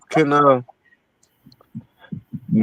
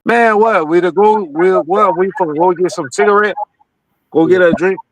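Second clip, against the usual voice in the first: put-on West African accent. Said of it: "I talk to you with the African accent".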